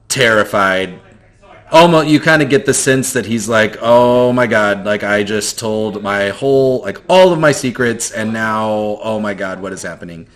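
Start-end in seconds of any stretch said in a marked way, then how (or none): 3.8-10.3 panicked inner voice. Acted. GM voices the terrified boy's thoughts.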